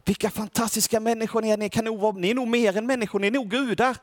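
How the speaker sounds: awed crowd. Retold or imitated. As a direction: gush over them as if they were gods. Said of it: "och folket i staden bara".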